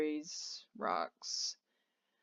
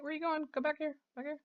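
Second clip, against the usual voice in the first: high urgent call to a unit wandering off; 8 semitones higher, faster than usual. Real, not acted. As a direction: call him back, pitched up and pleading. Calling to wandering game character.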